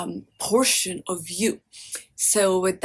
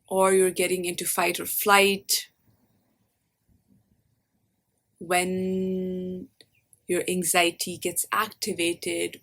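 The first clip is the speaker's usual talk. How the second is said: guided meditation. Acted. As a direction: lead them gently inward, leaving space after each phrase.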